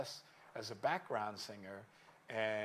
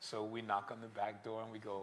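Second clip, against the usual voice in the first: ordinary talk, nothing marked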